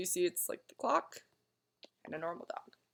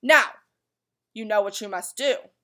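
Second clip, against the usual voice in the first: loud lecturing; 8 dB louder than usual. Acted. The watchdog keeps lecturing loudly.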